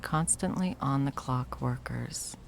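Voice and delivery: slow, hushed whisper. Acted. Villain ex whispering the scheme to her victim. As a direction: let the cruelty slip out as a secret. Villain savouring cruel detail.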